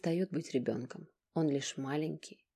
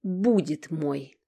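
obsessive; 7 dB louder, much slower than usual. Acted. Obsessive slow aside.

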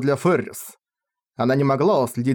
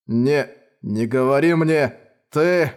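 trembling voice; slower than usual. Acted. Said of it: "дрожащим голосом".

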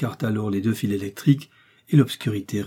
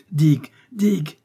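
high, urgent call; alarmed, raised-pitch summons; urgent cry; 6 semitones higher, 4 dB louder than usual. A narrator's reading. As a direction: call out for help at once. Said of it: "s'écria le docteur".

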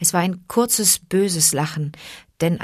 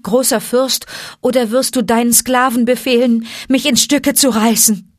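higher, pleading villager begging for his life; frightened pleading; 5 semitones higher, 3 dB louder than usual. Acted. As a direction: beg the great lord to let you go. Buldeo pleads with Mowgli. (ängstliches Flehen, höher)

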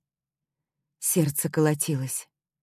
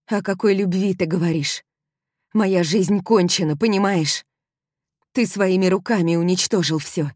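furious outcry; 4 semitones higher, 5 dB louder than usual. Acted. Heroine hysterical, crying, furious.

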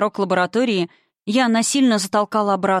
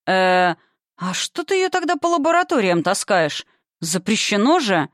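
bewildered. Acted. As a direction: caught off guard, puzzled. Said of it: "растерялся голос".

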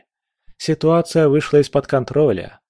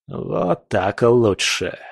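slow, contented villain tone; satisfied; much slower than usual. Acted. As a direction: say it pleased and slow. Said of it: "удовлетворённо произнёс Леос".

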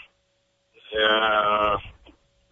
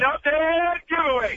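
much higher, slow Dead Giveaway, hitting Dead; emphatic catchphrase; 11 semitones higher, slower than usual. Shown as a demonstration. Guest shows how his catchphrase is really said. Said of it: "put the emphasis on".

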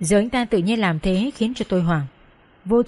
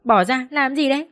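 pained shout; 5 semitones higher than usual. Acted. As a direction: shout at her to let go, it hurts. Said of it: "Tôi đau quá mới hét lên". (hét lên vì đau)

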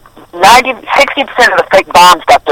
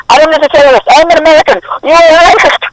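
put-on high-pitched indignant Arab accent; hammed-up, much higher Arab-accented voice; 12 semitones higher than usual. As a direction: protest in a mock Arab accent. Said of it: "why are you speaking like that".

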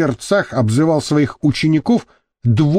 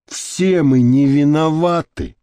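weighty; slower than usual. Acted. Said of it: "веско произнёс Семён Аристархович".

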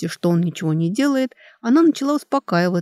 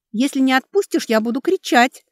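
higher, scared warning; frightened threat; 7 semitones higher than usual. Acted. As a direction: threaten him through fear. Girl threatens to scream. (испуганная угроза, голос выше)

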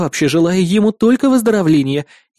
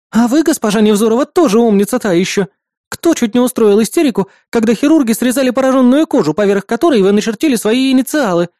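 higher, louder mocking needle; snorting jab; 6 semitones higher, 4 dB louder than usual. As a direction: tease her with a snort. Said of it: "фыркнула Маруся". (насмешливое фырканье)

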